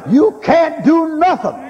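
high, slow shouted cry; preaching shout. Real, not acted. Preacher shouting slowly at the congregation. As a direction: bellow it at the congregation.

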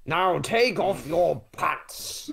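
drawn out very slowly; slow seductive. Acted. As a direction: stretch each word out slowly. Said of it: "I can kinda hear that in Tom's voice".

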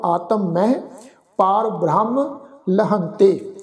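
ਮਹਿ said with nasal bindi; nasal mahi. Shown as a demonstration. Teacher showing ਮਹਿ with bindi. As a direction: nasalize ਮਹਿ, recite slowly. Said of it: "ਬਿੰਦੀ ਸਹਿਤ ਉਚਾਰਨ".

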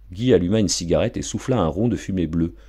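plain reading voice

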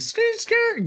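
high squealing skid noise; a playful tire squeal while racing to the scene; mock tire screech. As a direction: imitate tires squealing as he peels off. Racing car off to the office.

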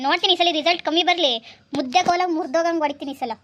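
loud motherly warning; scolding threat. Acted. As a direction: threaten her over the results, raising your voice. Mother threatening daughter over exam results.

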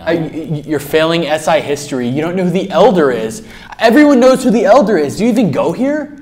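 stammer, then build to loud, high disbelief; appalled, climbing in pitch and volume; incredulous outburst. Acted. Disbelief at classmate not knowing.

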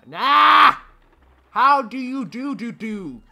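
very high, loud outburst; exasperated yell. Real, not acted. Gamer who doesn't understand the puzzle, exasperated yell. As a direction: yell in silly, baffled despair.

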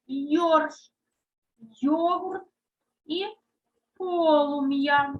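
slow, deliberate word-by-word dictation; dictation reading. Acted. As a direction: read each word for the class to sort. Reads a word list aloud.

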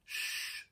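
soft voiceless hush; whispered shush. A narrator's reading. Pippi hushing Annika by the sleeping bull, whispered. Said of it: "hviskede Pippi".

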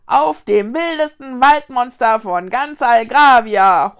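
exuberant, very loud holler; boastful shout at full tilt; joining the yell. A narrator's reading. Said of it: "stimmte eine zweite Stimme ein". (übermütig mitbrüllend)

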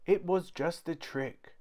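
very high child voice, faked panic; a small boy pretending a monster will eat him; little boy's fake alarm. A narrator's reading. Kipper fakes monster fright to Mum, very high.

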